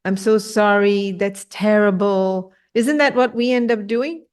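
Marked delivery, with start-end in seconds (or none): 0.0-2.5 slow, syrupy pity; drawn-out fake concern; mock false sympathy. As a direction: imitate a hollow comforter, slowly. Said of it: "like, false sympathy".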